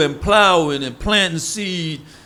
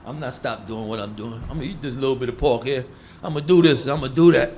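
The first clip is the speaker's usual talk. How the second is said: lower, dismissive mock defiance; lightly voiced stubborn man brushing it off, lower; defiant sinner; 5 semitones lower than usual. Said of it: "They gonna say".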